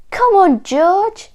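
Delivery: high, loud cheer to a friend; excited storybook chorus in one voice; eager urging. A narrator's reading. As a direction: egg him on excitedly. Animals urge George to open present.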